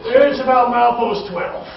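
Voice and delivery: slow southern caller with a laugh; a drawling southern local answering; southern accent. Retold or imitated. Caller giving the milepost, southern accent. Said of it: "North Idaho has a southern accent".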